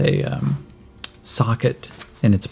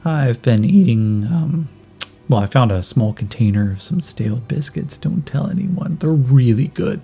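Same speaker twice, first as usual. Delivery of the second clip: put-on kid voice; 3 semitones higher than usual. Yin answers Micah's question.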